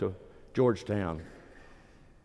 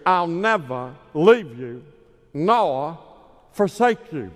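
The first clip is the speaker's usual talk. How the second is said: slow, louder evangelist boom on "I'll never leave you nor forsake you"; Billy Graham impression; 5 semitones higher, 5 dB louder, slower than usual. Preacher imitating Billy Graham quoting Hebrews, slow and booming. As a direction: draw out "forsake" like a revival preacher. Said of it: "like Billy Graham would say".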